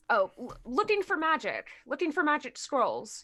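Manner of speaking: lightly mimicked voice of another character; a hint of borrowed voice, lilting; Gareth. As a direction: parrot someone else's voice, repeating the key phrase. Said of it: "in Gareth's voice".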